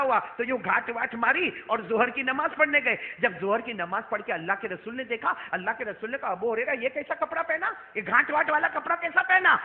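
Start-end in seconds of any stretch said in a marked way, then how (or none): 6.3-9.6 puzzled questioning. Retold or imitated. Prophet's surprised question, acted.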